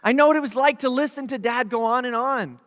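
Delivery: emphatic father. Retold or imitated. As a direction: press the point as a dad who has been there. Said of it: "being emphatic, but he's like".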